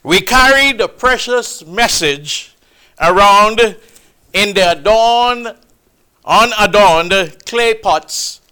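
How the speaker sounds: normal talking voice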